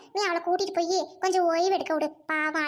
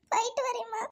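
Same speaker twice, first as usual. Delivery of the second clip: crying goodbye; 3 semitones higher than usual. Acted. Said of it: "இன்னுமா அழுதுகிட்டு இருக்கிய?".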